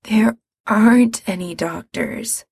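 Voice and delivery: a touch of tired resignation; weary. Acted. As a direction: sigh it out, worn down. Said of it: "Mikey says wearily".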